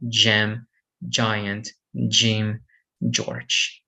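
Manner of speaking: "Gem, giant" starting with a J sound; soft G. Shown as a demonstration. Teacher giving examples of the rule, soft G. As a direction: say both Gs in "George" as J. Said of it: "it is pronounced as G".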